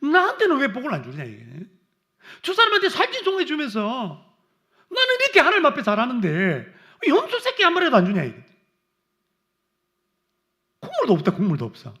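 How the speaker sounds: loud, high, laughing indignant protest; indignant complaint. Retold or imitated. Preacher acting a believer griping at God, mock outrage. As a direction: shout the unfairness half in jest.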